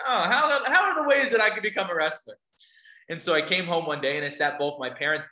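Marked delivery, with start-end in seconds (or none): 0.1-2.4 eager, laughing burst, pitched up; a kid struck by a bright idea, laughing; bubbling over with a new plan; excited teen idea. Retold or imitated. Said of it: "I'm like".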